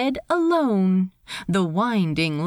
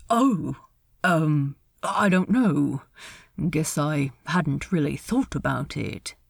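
lightly voiced low-key character; hesitant, offhand reply; a hint of a laconic man; 5 semitones lower than usual. Ed's reply to Steed.

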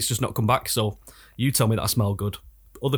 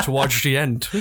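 laughing, exaggerated Dutch accent; mock Dutch accent; 4 semitones higher, 3 dB louder, slower than usual. Co-host mocking the accent that swayed Dutch, Dutch accent. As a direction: turn "towards" mushy, Dutch-style. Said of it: "it did sway considerably Dutch".

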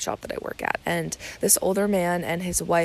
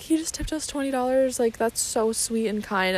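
higher-pitched, moved exclamation; retold touched amazement; 5 semitones higher than usual. Moved server explaining the tip to coworker, retold amazement. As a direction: replay amazed gratitude in a lifted pitch.

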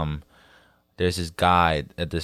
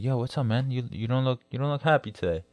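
higher, softer voice of a friend checking in; soft, lifted-pitch check-in; concerned food-truck guy; 4 semitones higher, 5 dB quieter than usual. Retold or imitated. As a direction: gently imitate the vendor's concern. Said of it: "then he was like".

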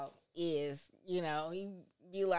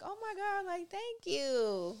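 excited gratitude; 11 semitones higher, slower than usual. Retold or imitated. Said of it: "I was just like".

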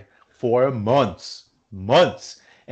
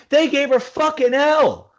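British man accent; 12 semitones higher than usual. Real, not acted. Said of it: "you sounded like a British man saying "fucking hell".

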